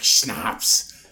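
very low mock Austrian punchline; deep Austrian-accented single word; Arnold Schwarzenegger. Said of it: "he's like".

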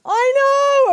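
high, loud exclaimed agreement; emphatic agreement. A narrator's reading. Grandmother agreeing with disgusted children, emphatic exclamation. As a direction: leap up in pitch and volume to agree.

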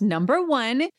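hammed-up retold accusation; mock accusation. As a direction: count off the charge, stretching the ending. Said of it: "eight point five Ann says".

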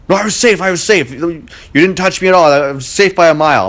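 high-pitched insistent whine, imitating him; mock protest. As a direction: mimic the runner's indignant denial. Opponent insisting he was safe.

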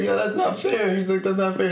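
lightly hammed-up objection; mock protest. Retells guest protesting to laughing host.

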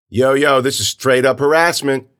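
loud, high-pitched indignation; protesting kid. Acted. Friend filming the police, loudly indignant. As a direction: call it out for the camera.

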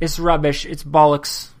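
a hint of a British accent; mock British accent. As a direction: lightly put on British slang voice. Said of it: "That's what they say, right?".

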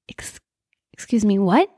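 halting, whispered false start into a rising question; taken aback. Retold or imitated. Mother told of her son's misdeed, taken aback. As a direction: stammer in shock, lift the last word. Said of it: "so taken aback, so in shock".

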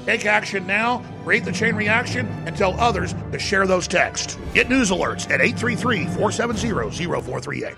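soft radio promo read. Acted. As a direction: read it like a station ad. Reads an InfoWars promo.

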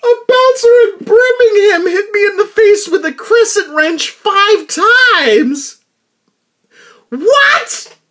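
high, loud, repeating it through laughter; can't believe it, laughing it out; laughing disbelief. Real, not acted.

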